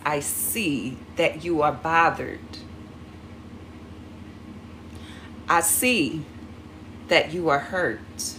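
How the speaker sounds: slow, calm acknowledgement; slow down and truly validate them; acknowledging calmly. Shown as a demonstration. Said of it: "what you can say is".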